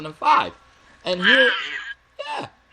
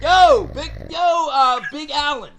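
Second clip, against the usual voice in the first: put-on dude voice; 8 semitones higher than usual. Interrupting as another guy.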